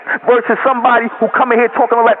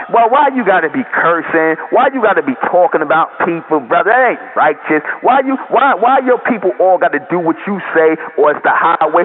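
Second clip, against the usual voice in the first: a lower, preachy whine of a critic; mock pious critic; 6 semitones lower than usual. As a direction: mimic the sanctimonious complainer, voice dropped low. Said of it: "Not somebody who's saying".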